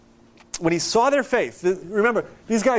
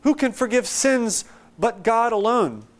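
higher-pitched, imitated outcry of the scribes; mock freak-out; 4 semitones higher than usual. Preacher voicing scribes freaking out at Jesus, mock freak-out. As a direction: cry out in mock outrage at blasphemy. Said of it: "they freak out".

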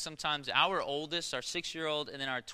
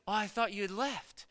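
put-on little boy's reply; 6 semitones higher than usual. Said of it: "And then he goes".

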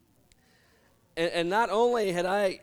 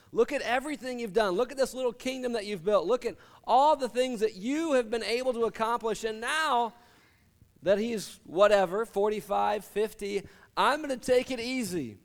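higher, smug self-praise; self-satisfied boast; 5 semitones higher than usual. Acted. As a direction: crow about his little kingdom. Rich man praising himself.

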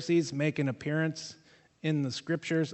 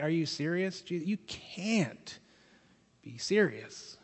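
accusatory; 4 dB quieter, slower than usual. Retold or imitated. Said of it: "Kind of in that tone that's accusatory".

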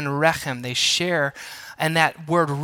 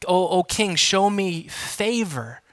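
pleading subject. Pretend. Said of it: "coming to a king and saying".

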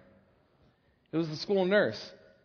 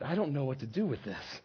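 bewildered; 5 semitones lower, 7 dB quieter than usual. Acted. Mother at a loss.

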